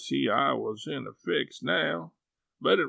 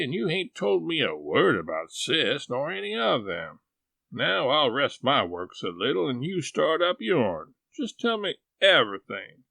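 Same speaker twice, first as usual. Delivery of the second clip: put-on eager old aunt, chattering; a homely aunt pouring out questions; lightly voiced country aunt, eager; Aunt Sally; 3 semitones higher than usual.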